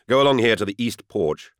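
loud urgent command. Acted. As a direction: order them out fast. Ordering escape under fire.

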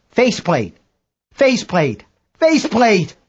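high yell building with each repeat; panicked astronaut's yell. A narrator's reading. American astronaut warns about faceplate, escalating panicked yell.

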